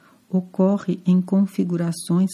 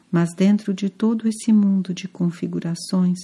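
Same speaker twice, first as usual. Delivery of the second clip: normal talking voice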